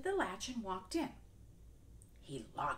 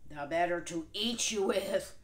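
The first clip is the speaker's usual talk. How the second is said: gloating wolf; 8 dB louder than usual. Acted. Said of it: "laughed the wolf".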